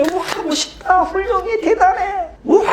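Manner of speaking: high excited cheering; cheering girls. Retold or imitated. Girls cheering the boy's speech, high excited praise. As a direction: gush like schoolgirls clapping. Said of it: "박수 치며".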